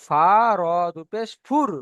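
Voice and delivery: slow letter names "ফা র দু পেশ", landing on "ফুর"; spelling out fur. Shown as a demonstration. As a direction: spell it out, then join as "ফুর" with r. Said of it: "ফুন বলা যাবে না".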